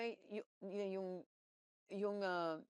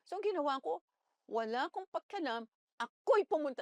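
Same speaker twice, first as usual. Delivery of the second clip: defiant; 4 semitones higher, 7 dB louder than usual. Retold or imitated. Defiant, building loudness.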